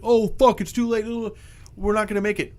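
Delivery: lightly acted oh-no panic; mock panic. Swimmer sees the Megalodon coming, mock panic. Swimmers voiced fleeing the shark.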